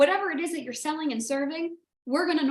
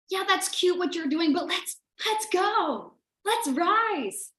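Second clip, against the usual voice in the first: teasing push; 5 semitones higher, slower than usual. Retold or imitated. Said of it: "That's what these people did".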